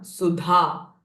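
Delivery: "सुधा" with aspirated धा; mahaprana dh. Shown as a demonstration. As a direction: push breath through the धा in "सुधा". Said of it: "महाप्राण". ("सुधा" said carefully, breathy dh)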